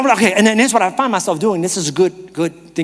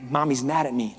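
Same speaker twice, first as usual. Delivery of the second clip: put-on hurt child; 5 semitones lower, 7 dB quieter than usual. Child's reaction to the yell.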